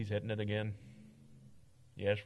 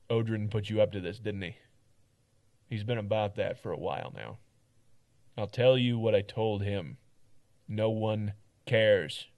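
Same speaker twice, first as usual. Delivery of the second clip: firm, weary guard telling it straight; blunt, tired town guard; gruff guard voice; 6 dB louder than usual. Acted. Voice actor reading Mart lines.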